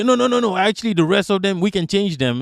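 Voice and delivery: mock objection that starts high and eases down; protesting apologist. Acting out someone pleading for others.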